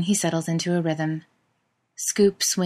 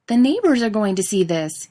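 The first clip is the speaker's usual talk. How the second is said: louder, higher call; 4 semitones higher, 6 dB louder than usual. Acted. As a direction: call across the yard. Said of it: "he calls".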